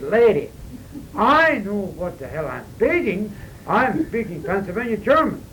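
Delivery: getting hot under the collar, slowly; retold heated retort. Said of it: "I can soon feel when I start getting hot".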